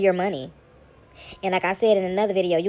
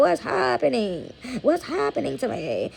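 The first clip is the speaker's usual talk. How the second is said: mock bewildered; 4 semitones higher, slower than usual. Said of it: "rolling around on the floor talking about".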